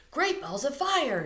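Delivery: loud, slow, high exclamation from the dad; father's shout. Acted. Dad shouting in alarm at the noise. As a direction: belt it out like a startled dad. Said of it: "shouted Stella's father".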